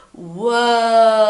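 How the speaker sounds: rollercoaster whoa. Pretend. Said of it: "so you go".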